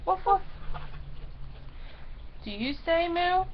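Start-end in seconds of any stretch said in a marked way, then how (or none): 0.1-0.4 small, high double woof; light dog imitation. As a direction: woof twice like a little dog. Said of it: "and dogs just".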